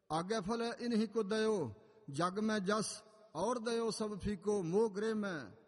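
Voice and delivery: slow, slightly lifted verse recital; measured, drawn-out Gurbani recitation; scripture recitation. Acted. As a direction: proclaim the holy verse, stretching each phrase.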